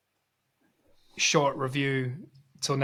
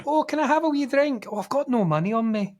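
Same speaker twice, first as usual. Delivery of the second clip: mocking Kev; 8 semitones higher than usual. Mocking Kev's freeloading.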